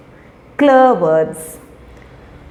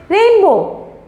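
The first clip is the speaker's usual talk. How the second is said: put-on baby talk; 9 semitones higher than usual. Shown as a demonstration. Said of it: "If you see the rainbow".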